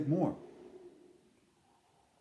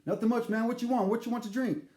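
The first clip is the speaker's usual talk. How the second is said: bartender voice; 10 semitones higher, 3 dB louder, faster than usual. Retold or imitated. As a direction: play the laid-back bartender. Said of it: "Isaac answering".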